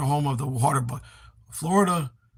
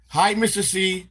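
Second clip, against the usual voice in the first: cat voice; 6 semitones higher, 4 dB louder, slower than usual. Pretend. Greeting in cat's voice.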